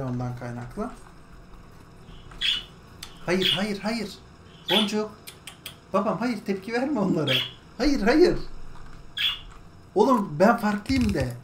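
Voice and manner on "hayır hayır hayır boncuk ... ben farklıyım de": tiz ve yüksek sesle hayır hayır; bağıran kuşu yüksek sesle durdur; kuşa sert uyarı. Real, not acted. Bağıran kuşu susturmaya çalışma. (bağıran kuşa tiz ve yüksek uyarı)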